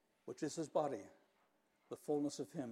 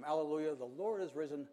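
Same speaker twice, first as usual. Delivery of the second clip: shouted response. Retold or imitated. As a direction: shout the answer back to the rector. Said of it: "likewise shouts back to him".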